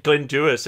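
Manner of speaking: Dewis said as "DOO-iss"; name said right. Shown as a demonstration. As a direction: say Dewis carefully in two syllables. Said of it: "to say his name right".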